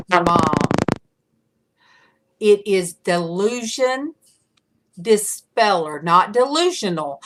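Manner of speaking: imitating a son setting her straight; retold correction. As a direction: spell it out for Mom, word by word.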